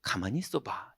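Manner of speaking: soft, hushed wait-a-moment; quiet calm prayer. Retold or imitated. Frightened preacher quietly reasoning in prayer, soft hush. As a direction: murmur it almost to yourself. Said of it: "너무 무서우니까 나온 기도가".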